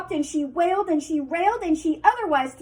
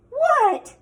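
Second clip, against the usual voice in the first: surprised what; 13 semitones higher, 7 dB louder than usual. Acted. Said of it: "he asked".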